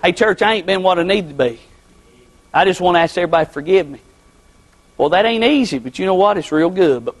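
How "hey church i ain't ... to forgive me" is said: low-voiced confession to a congregation; acted public apology, subdued; humble confession. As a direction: own up humbly, voice dropped. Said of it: "Stand up and tell the church".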